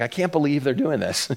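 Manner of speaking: low, soft, mildly dejected voice; slightly depressed. Acted. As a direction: let it sink into mock disappointment. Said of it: "sort of in a depressed voice a little bit".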